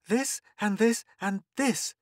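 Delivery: put-on high bossy little girl; instructing. Girl bossing her playmates, instructing. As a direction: point and dole out jobs. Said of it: "instructing the others".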